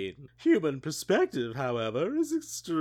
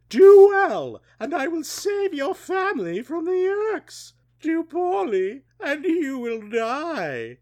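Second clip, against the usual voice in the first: booming ultimatum; 14 semitones higher, 8 dB louder than usual. Acted. Ellimist ultimatum, loud and high.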